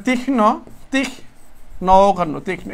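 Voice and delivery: "তীক্ষ্ণ" softly, in parts, as tikh-no; pronunciation demo. Shown as a demonstration. Teacher telling students this is how "তীক্ষ্ণ" goes, demonstrating softly. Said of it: "এভাবে হচ্ছে তীক্ষ্ণ".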